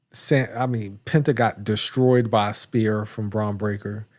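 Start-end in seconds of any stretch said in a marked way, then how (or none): 1.0-4.1 talking through hiccups; hiccuping between words. Real, not acted. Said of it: "I got the hiccups out of nowhere".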